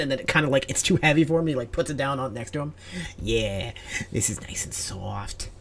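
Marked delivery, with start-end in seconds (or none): 3.2-5.5 hushed, cozy whisper; soft whisper. Acted. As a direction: murmur it contentedly. Squirrel hugging plushie.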